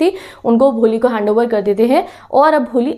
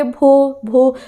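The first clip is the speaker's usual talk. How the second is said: stammering; much slower than usual. Retold or imitated. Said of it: "वो ऐसा stammer कर रही होती है".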